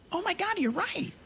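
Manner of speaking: high, realizing "oh my God"; wife suddenly realizes; surprised wife. Retold or imitated. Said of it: "She's like".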